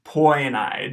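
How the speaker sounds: poenai with oi then eye; diphthong demo. Shown as a demonstration. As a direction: model poenai slowly. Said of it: "pronounced poenai".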